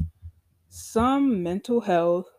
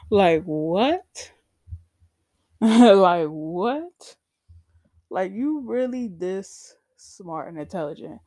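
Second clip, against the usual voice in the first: loud, laughing disbelief with rising end; incredulous; 6 dB louder, slower than usual. Real, not acted. Patient reacting to her psychiatrist's retold remark, incredulous. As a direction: ask it loudly in amused disbelief.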